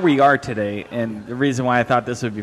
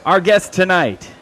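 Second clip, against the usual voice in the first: raised, drawn-out guest introduction; show announcer; 4 semitones higher, 4 dB louder than usual. Acted. Host introducing tonight's guest to listeners, announcer style. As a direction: build up the guest like an emcee.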